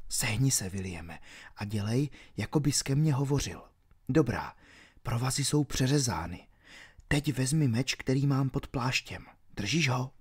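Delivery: urgent whispered instructions. Acted. Robin secretly whispering to Will, urgent whisper. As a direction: whisper so guards can't hear.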